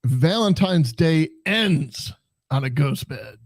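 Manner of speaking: oversell it, then squeal; mock sultry tagline. Joking ad tagline.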